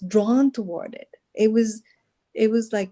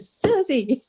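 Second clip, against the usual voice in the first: calling out urgently; 8 semitones higher than usual. Retold or imitated. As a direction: call her back, insistent. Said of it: "She said".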